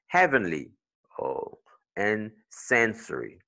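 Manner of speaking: "heavenly" on HEA, "sensory" on SEN; first-syllable stress. Shown as a demonstration. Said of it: "you get it on the first one".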